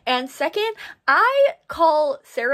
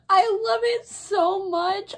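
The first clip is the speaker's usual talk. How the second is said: higher, slow, teary gush; near tears of joy; 8 semitones higher, 4 dB louder, slower than usual. Real, not acted. Vlogger overwhelmed by the beautiful edition, teary joy. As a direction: gush as if about to cry.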